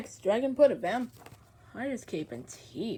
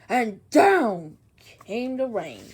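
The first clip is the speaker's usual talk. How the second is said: stretched slow and loud; slow dramatic storytime; slow rain line; 8 dB louder, much slower than usual. A narrator's reading. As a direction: draw the rain out slowly. Drawn out storm line.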